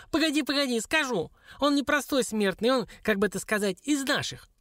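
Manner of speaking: high, squeaky dwarf voice; high-pitched, hedging little creature; flustered dwarf. Acted. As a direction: explain hurriedly as a cornered little imp.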